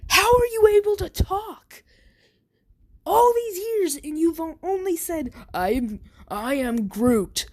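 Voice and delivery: a shaken bully, voice cracking into a cry; high, frightened voice of a bully in shock; petrified. Retold or imitated. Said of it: "he's, like, petrified".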